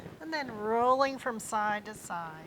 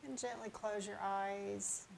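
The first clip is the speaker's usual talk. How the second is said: unhurried, gently lowered yoga-teacher voice; guided relaxation; 7 dB quieter than usual. Real, not acted. Yoga teacher settling viewers on their mats, calm guided relaxation. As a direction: ease them into the breath with long pauses.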